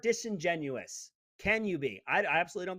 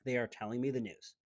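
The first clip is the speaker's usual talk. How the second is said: mock trusting viewer; 8 semitones lower, 6 dB quieter than usual. Lightly mocking an old-time viewer taking the news on trust. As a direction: lower and softer, a dull obedient TV watcher. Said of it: "you could click on the T V and go".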